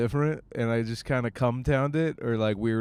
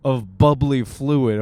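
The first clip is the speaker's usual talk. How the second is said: complaining stomach; 2 semitones higher, 6 dB louder, slower than usual. Acted. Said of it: "my stomach's like".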